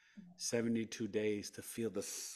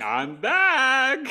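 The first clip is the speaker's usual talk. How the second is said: much higher and louder, exultant; triumphant shout; 15 dB louder than usual. Retold or imitated. Patient announcing his recovery to the nurse, triumphant shout. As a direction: crow it like a comeback.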